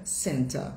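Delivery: "center" with no final r; British "center", open unstressed ending; British pronunciation. Shown as a demonstration. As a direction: say "center" as "SEN-tah". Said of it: "vai mudar a pronúncia".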